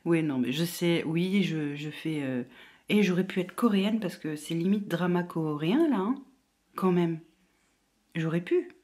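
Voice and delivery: hushed whisper. Real, not acted. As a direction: keep it hushed and low. Whispering while waiting.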